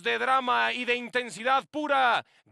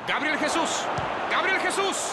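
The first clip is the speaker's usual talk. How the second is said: building excitement; 4 semitones higher than usual. Real, not acted. Commentator building to goal.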